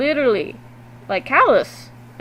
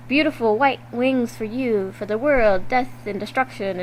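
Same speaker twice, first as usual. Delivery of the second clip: lightly voiced creepy game character, slowly; half-hearted imitation of an eerie voice. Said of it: "She has this really creepy voice. I can't really impersonate her".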